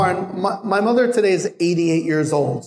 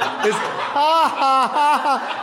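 a mock high cackle, copying his wife; imitating wife laughing; 8 semitones higher, much slower than usual. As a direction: parrot her amused laughter, pitched up. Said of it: "my wife just starts laughing at me".

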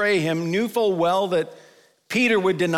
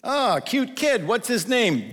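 put-on high, slow cooing over a baby; cooing visitor; 5 semitones higher, slower than usual. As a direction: coo sweetly at the cute baby.

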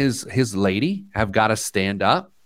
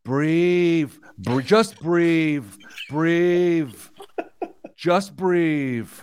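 imitating a soothing plea, drawn out; slightly raised, slow mock-calming voice; calming lady friend; 5 semitones higher, much slower than usual. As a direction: stretch each word to settle someone down. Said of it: "she goes, Breathe".

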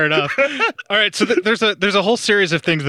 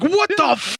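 WHAT THE FUCK drawn out, higher, in disbelief; stretched-out, incredulous demo; bewildered waking reaction; 7 semitones higher than usual. Shown as a demonstration. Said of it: "I said it like that, like".

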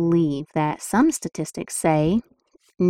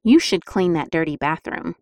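bossy demand. Shown as a demonstration. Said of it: "which you think your family members would respond better to".

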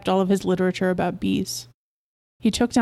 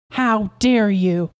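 slow, indignant reproach; outraged; 3 dB louder, much slower than usual. Acted. Wife confronts husband over the baby's milk, outraged. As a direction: draw it out in indignation.

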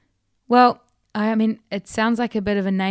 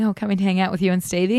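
joking; faster than usual. Retold or imitated. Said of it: "I joked around saying".

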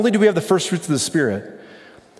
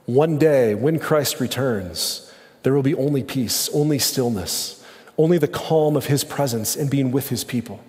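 soothing reassurance; 2 semitones lower than usual. Real, not acted. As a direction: offer calm comfort, unhurried. Promising peace to the anxious.

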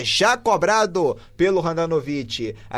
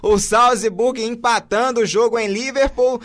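elated commentary; 4 semitones higher, 3 dB louder than usual. Real, not acted. Narrator still elated after goal.

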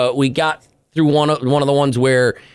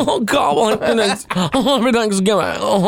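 Cher doing a turkey; 8 semitones higher than usual. Pretend. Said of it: "Cher doing a turkey impression".

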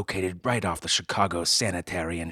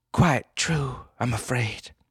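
posh heiress; 6 semitones higher, 4 dB louder, slower than usual. Acted. Heiress admits.

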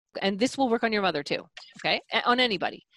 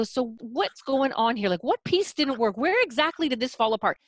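annoyed clarifying; 4 semitones higher than usual. Shown as a demonstration. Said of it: "you've gotta be almost as annoyed as he is".

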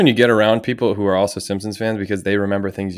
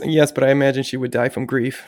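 Mike Tyson; 5 semitones higher than usual. Acted. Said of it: "And he goes".

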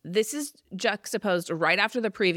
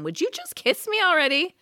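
retold yell; 10 semitones higher than usual. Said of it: "Kat yells at him".

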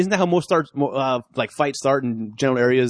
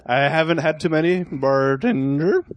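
mock English accent, last word drawn right out; slow down into a hammed-up English "bartender"; put-on English accent; 2 semitones higher, slower than usual. Drinker assuring the bartender he's sober, put-on English accent. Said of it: "You from England? All of a sudden?".

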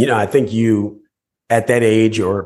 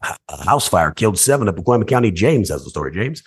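news anchor voice. Retold or imitated. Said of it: "I would copy 'em".

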